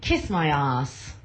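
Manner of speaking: slowly on request. Shown as a demonstration. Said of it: "say it".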